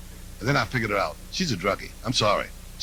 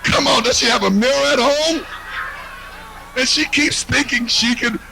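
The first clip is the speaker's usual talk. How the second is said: mock prissy voice; 8 semitones higher than usual. Mocking a woman in a far voice.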